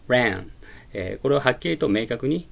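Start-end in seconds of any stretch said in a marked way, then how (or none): 0.1-0.5 ran。の母音をアの口でエと言う中間音で; ran。をアとエの中間音ではっきり発音; ranの発音実演. Shown as a demonstration. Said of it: "あの口で、えというふうな発音をする". (ran。はアの口のままエと言う)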